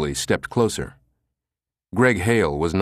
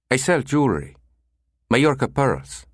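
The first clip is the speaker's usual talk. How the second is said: higher, stuffed-up caller voice; nasal with a cold; 6 semitones higher than usual. Acted. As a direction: sound like you have a slight cold. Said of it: "He sounded nasal".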